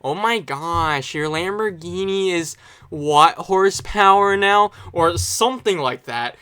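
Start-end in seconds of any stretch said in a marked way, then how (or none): 0.0-4.7 a hint of Hollywood gold digger, words drawn out at first; mildly mock a Valley Girl gold digger; slightly put-on gold-digger gush, slow opening; lightly voiced gold digger. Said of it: "sounds like a Hollywood gold digger".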